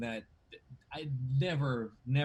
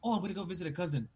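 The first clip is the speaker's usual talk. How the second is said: mock casual traveler; 5 semitones higher, much faster than usual. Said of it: "It's like".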